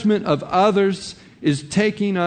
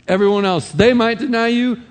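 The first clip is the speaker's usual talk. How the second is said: higher and louder, puffed-up brag; boastful Peter; 7 semitones higher, 5 dB louder than usual. Retold or imitated. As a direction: play a proud disciple swearing loyalty. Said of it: "he's pouring out boasting".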